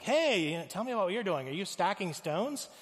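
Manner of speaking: mildly acted hesitant friendliness; a little gun-shy. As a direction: ask cautiously, wary of the answer. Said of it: "the architect's a little gun shy".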